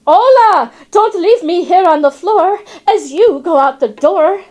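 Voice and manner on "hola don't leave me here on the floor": loud high squawking plea. Retold or imitated. Parrot squawking from the floor at the fleeing animals. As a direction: squawk after them as they leave. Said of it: "I squawk".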